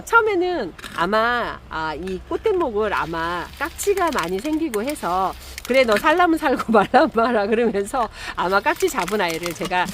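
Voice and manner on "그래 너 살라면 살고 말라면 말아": higher, louder exasperated brush-off; mock fed-up owner giving up on a plant; half-joking scolding. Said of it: "저 가끔 그럴 때 있거든요". (반 농담으로 포기한 듯 핀잔주는 말투)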